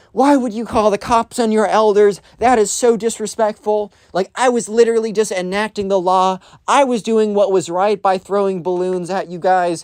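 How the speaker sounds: put-on furious, indignant screaming rant, high and angry. Retelling how a woman screamed at a man at a kid's birthday party, retelling an angry scream. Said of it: "starts screaming at him like".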